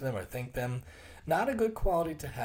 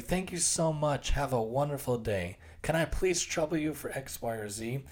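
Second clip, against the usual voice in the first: extra polite; 2 semitones higher than usual. Shown as a demonstration. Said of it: "And I purposely say it like that".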